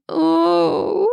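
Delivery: long high-pitched groan. A narrator's reading. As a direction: groan it out on one long breath. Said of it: "filled with a low groan".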